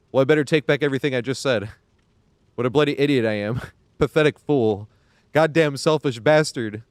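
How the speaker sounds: half-hearted mock rant, dragging out each insult; imitating Gustave's rant. Streamer retells Gustave's rant at himself, lightly voiced. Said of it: "And he's like".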